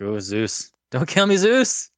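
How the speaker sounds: pleading, building to a high yell; mock pleading to Zeus. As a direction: beg the god for mercy. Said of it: "I'm like".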